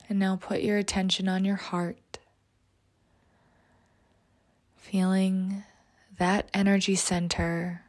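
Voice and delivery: slow, soft meditation voice; guided meditation. Acted. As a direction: guide them into calm, often whispering. Leads a meditation.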